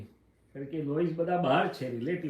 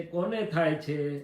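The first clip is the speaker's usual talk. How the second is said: slow, louder, drawn-out question; Dada Bhagwan's question; 6 dB louder, much slower than usual. Retold or imitated. Guru gently probing the disciple's complaint, slow and emphatic. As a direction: lean on કોને, slowly and firmly. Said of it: "પછી કહે છે".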